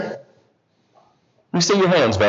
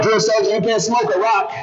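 hollering; 5 semitones higher than usual. Retold or imitated. Recruit calls to the drill sergeant from the crowd, mock hollering. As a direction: imitate a recruit calling out, pitched up. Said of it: "he would holler out from the crowd".

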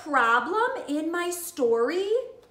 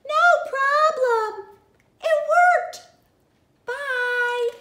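cheerful; 10 semitones higher, 7 dB louder, much slower than usual. Acted. Birds agree, Elephant relieved.

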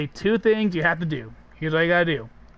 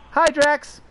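Mantis voice; 9 semitones higher, 3 dB louder than usual. Retold or imitated. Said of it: "Mantis walks in".

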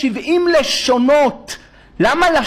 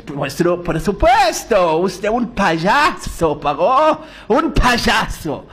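very slow mocking Spanish; 3 semitones lower, much slower than usual. Joseph teasing Pharaoh in slow Spanish. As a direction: savor the teasing slowly. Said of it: "Joseph answers".

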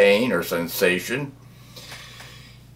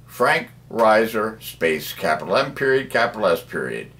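dictating; 3 semitones higher than usual. Shown as a demonstration. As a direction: read it out for typing. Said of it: "type it on YouTube".

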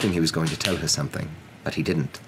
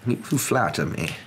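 put-on slightly raised old wizard voice; calm; 4 semitones higher than usual. Wizard answers the professor's compliment, calm. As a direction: take the praise unruffled. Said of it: "said Dumbledore calmly".

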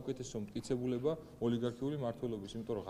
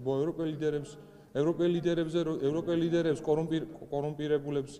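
louder and higher, forcing words over the host; indignant, loud and insistent; heated raised voice; 4 semitones higher, 7 dB louder than usual. Real, not acted. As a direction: keep pressing, voice up, won't be cut off. Raising voice over interviewer.

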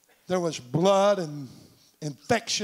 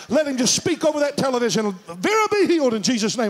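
retold fervent prayer; 4 semitones higher, 3 dB louder than usual. Retold pleading prayer, healing declaration.

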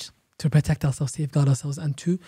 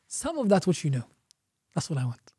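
humble; 6 dB quieter than usual. Acted. Student asking a teacher modestly, humble and soft. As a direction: ask for only a little, softly. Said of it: "Showing humility".

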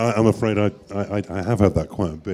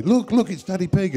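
parent's high, raised excited call; 12 semitones higher than usual. Retold or imitated. Parent to little one spotting Daddy Pig, excited. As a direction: point out a celebrity to a child, excitedly. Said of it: "to have their parents say".

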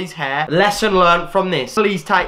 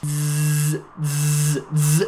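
imitating clippers buzzing; mock clipper noise; much slower than usual. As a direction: buzz like hair clippers. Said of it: "just does this".

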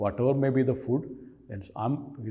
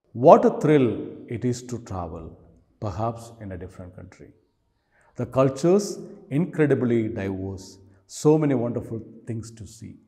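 poem reading; 6 dB louder than usual. Acted. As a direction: recite verse, each line starting loud and falling away. Reads the poem aloud.

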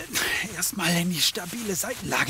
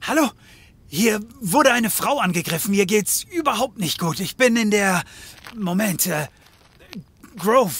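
urgent phone call; 5 dB louder than usual. Acted.

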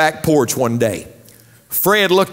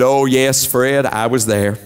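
lightly voiced wife; 4 semitones lower than usual. Wife answers in joke.

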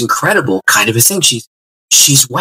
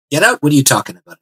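baffled; 5 semitones higher, faster than usual. Retold or imitated. His baffled reaction to preacher.

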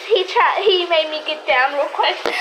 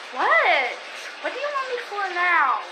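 angry; 4 semitones higher than usual. Pretend. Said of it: "this is my angry voice".

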